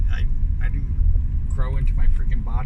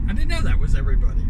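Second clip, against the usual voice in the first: mock surprise; 11 semitones higher, much faster than usual. Real, not acted. Mock surprise, very high, fast.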